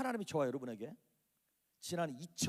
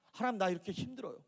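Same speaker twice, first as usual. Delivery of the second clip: acted desperate plea, climbing higher; building from a complaint into a raised outcry; crying out to God; 3 semitones higher than usual. Shown as a demonstration. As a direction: plead with mounting urgency. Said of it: "그렇게 외치라고 하는 것이죠".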